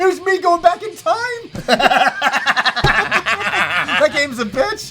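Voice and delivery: talking through laughter; laughing through the punchline. Real, not acted. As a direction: joke while still laughing. Laughing over broken cartridge story.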